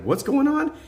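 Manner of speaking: acted bewilderment. Baffled worker facing strange customer, acted bewilderment. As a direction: retell being lost, pitch shooting up. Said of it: "I was lost".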